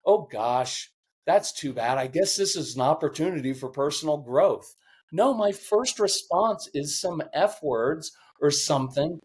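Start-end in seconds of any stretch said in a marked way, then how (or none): 0.0-4.8 mock serene. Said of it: "I don't say".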